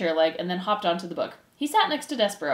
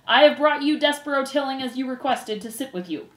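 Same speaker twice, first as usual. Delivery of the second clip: raised, formal proclamation; shouted announcement; 5 semitones higher, 4 dB louder than usual. Acted. Furlow presents his brother to the council, shouted. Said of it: "shouted Furlow".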